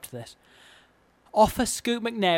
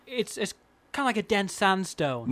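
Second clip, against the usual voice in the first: higher-pitched, tentative impression attempt; Chris Pratt; 4 semitones higher than usual. Host trying the impression for his co-host, tentative impression. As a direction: have an unsure go at an actor's voice. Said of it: "Sound like him".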